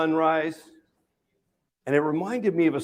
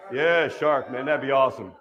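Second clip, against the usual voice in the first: fake bravado; 4 semitones lower than usual. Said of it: "what comes out of my mouth".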